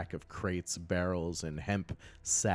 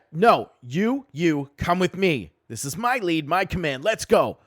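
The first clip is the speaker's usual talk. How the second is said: goblin knight; 9 semitones higher, 8 dB louder than usual. Acted. Goblin knight orders the party.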